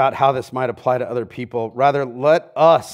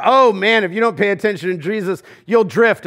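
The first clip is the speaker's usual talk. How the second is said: casual hearsay; 5 semitones higher, 4 dB louder than usual. Retold or imitated. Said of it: "Like, I hear".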